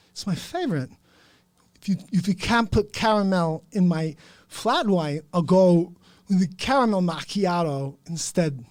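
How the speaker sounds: loud, demanding Cuban gangster voice; Scarface Pacino impression. Scarface ordering a caramel flat white, pushy. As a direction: bark the coffee order like Tony Montana. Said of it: "Scarface Al Pacino going to get coffee".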